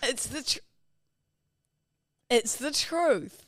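slow lisped insistence; lisping. Real, not acted. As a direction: say it slowly with a lisp. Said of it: "just lisping for no reason".

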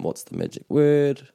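parent prompting. Retold or imitated. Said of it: "I grew up anyway hearing this all the time".

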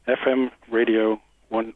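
slow, halting radio voice attempt. Caller attempts the station line on request, radio voice. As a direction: try out a deliberate radio read. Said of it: "In your best radio voice".

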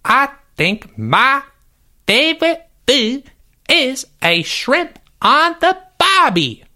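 high, slow, hammed-up Australian accent; a clumsy, overdone Australian accent; bad Australian accent. Answering the favorite food question, a horrifying mock Australian accent. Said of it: "is that meant to be an Australian accent".

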